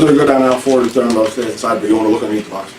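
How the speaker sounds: store clerk rattling off directions fast; acted hurried clerk; rapid-fire directions. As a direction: run the words together without a break.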